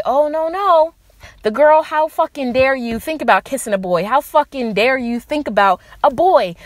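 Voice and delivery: lightly acted scandalized parent; mildly mock-scold a daughter; a touch of parental outrage. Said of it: "and they say".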